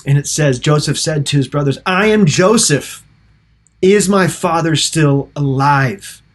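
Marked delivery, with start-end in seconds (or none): 1.8-6.2 higher, drawn-out cry of revelation; slow, impassioned declaration, not truly sobbing; mock emotional outcry. Preacher voices Joseph revealing himself to his brothers, emotional outcry. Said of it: "through the tears and through, you know, heavy breathing, and he, he's sobbing".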